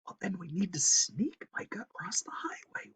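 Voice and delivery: hushed whisper; urgent squirrel whisper. Acted. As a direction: breathe it so no one hears. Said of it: "whispered Hipswitch".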